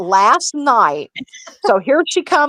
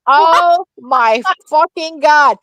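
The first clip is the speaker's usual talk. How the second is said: laughing; 5 semitones higher, 3 dB louder, slower than usual. Real, not acted. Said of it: "I lost it".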